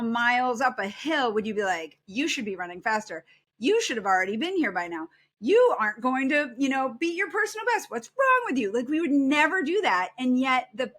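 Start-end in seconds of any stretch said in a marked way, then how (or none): 2.1-8.7 mock berating. Mock-berating a marathon friend.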